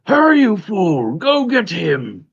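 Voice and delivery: high, loud villain's command; screaming monster. Acted. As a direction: scream the order at a lagging minion, high-pitched. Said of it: "You can hear all the arcane screaming".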